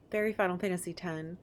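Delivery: usual speaking voice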